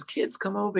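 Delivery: put-on high, coaxing call to children; sweet and loving. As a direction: lightly imitate a kind woman beckoning kids. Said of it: "she's sweet and kind and loving".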